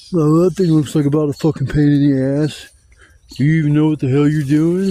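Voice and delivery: a hint of a loud, taunting stepfather; mocking stepdad. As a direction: sneer at him like a heckling stepdad. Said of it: "making fun of me the whole fucking time".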